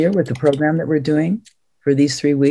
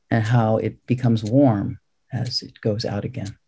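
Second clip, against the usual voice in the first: unhurried breathing instructions with long pauses; calm, measured meditation teacher; guided meditation. Real, not acted. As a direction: guide each breath, leaving space after it.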